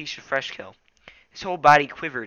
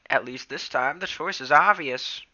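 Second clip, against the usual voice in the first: put-on old tom cat voice; 4 semitones higher, 6 dB louder than usual. A narrator's reading. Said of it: "mewed Halftail".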